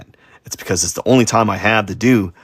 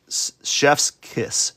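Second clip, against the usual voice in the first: whispered chef's kiss; 3 semitones higher, 4 dB quieter, much slower than usual. Real, not acted. Praising own good art.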